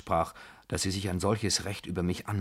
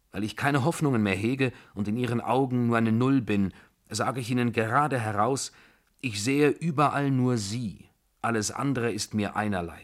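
impassioned confession; 3 semitones higher, 4 dB louder than usual. Acted. Narrator confesses hopeless love to her, impassioned. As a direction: pour it out fervently, a little louder.

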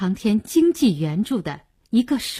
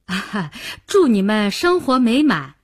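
mildly raised official voice; loud, perfunctory. Acted. Registrar congratulating newlyweds after stamping, routinely loud. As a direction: proclaim it as a routine formality. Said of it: "例行公事地大声说道".

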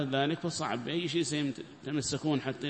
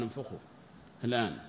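"انفخوا" said much softer and lower, almost under the breath; quiet command; 3 semitones lower, 6 dB quieter, faster than usual. Retold or imitated. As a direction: hush the order "انفخوا الآن". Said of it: "قال". (أمر هادئ بصوت منخفض: "انفخوا")

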